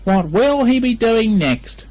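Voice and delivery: a hint of a coaxing mother; lightly voiced Kanga. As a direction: tease him gently. Kanga humouring Piglet.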